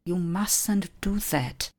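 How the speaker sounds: strict teacher forbidding something; strict command. Shown as a demonstration. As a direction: scold them firmly, word by word. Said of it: "zvedněte ukazováček a buďte přísní".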